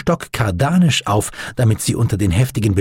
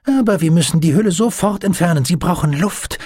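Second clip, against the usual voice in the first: high, eager, lively chatter; delighted enthusiasm; 7 semitones higher than usual. A narrator's reading. Doctor shows friend his glass beehive, excited. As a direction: gush proudly over a new treasure.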